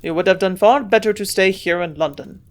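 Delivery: put-on a grunted reproach with a German accent; grumbling German accent. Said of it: "grunted the old man".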